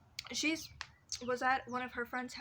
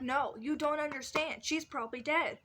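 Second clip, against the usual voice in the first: dramatic panic; 5 semitones higher, 6 dB louder than usual. Retold or imitated. Telling her friends she's probably dead, in mock panic. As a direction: sell how sure you are that she's gone.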